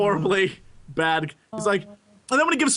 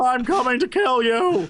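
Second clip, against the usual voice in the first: Russian mole man; 4 semitones higher than usual. Acted. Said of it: "the mole men are clearly Russian".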